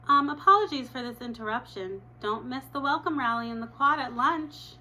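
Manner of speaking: giggly student announcer on the loudspeaker; school announcement. Acted.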